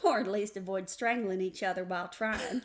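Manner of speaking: folksy co-host chiming in; mock-earnest Southern-style intro; hammed-up show intro. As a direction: play along with the theatrical opening. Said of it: "I couldn't keep it straight".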